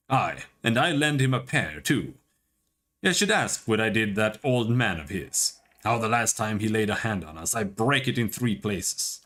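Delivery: a light, rough Scottish brogue; gruff Scottish taunt, only lightly put on; mock-tough Scottish voice; Scottish accent. Isilmir boasts through Aloth.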